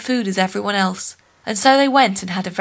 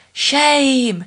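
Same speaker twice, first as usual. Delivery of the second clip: trees crying shame; 5 semitones higher than usual. Acted. The trees cry out.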